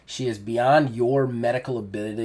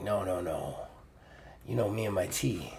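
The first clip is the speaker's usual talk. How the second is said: soft weak refusal; 4 semitones lower, 10 dB quieter than usual. Acted. Dying mentor refuses extra.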